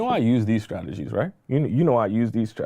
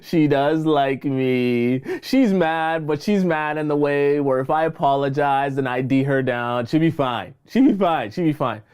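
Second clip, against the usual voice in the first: mock ex voice; slower than usual. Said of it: "he's gonna start saying".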